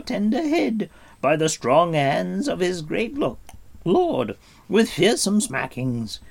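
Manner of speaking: high, loud piteous whine; whining creature. A narrator's reading. Gurgi begging not to be smacked, high and whining. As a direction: grovel and whimper. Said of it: "the creature wailed".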